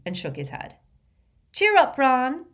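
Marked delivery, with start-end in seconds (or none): 1.5-2.5 put-on high, loud girlish cheer-up call; raised, encouraging shout. A narrator's reading. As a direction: call across to cheer a friend on. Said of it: "called Lavender".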